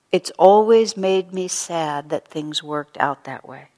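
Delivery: slow, gentle and sincere, a mild touch of sorrow; gentle sincere regret. Retold or imitated. Paula on the phone to her old rival, slow and gently regretful. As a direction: soften it into an honest regret. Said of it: "what she says on the phone is".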